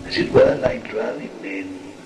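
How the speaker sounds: slow, hushed and solemn, half whispered; solemn whispered sermon. Acted. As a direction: intone it like a spirit blessing the circle. Spirit guide addresses circle.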